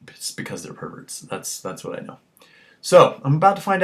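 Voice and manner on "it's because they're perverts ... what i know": conspiratorial whisper; hushed conspiratorial aside. Real, not acted. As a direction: lean in and whisper the secret. Conspiratorial aside after outburst.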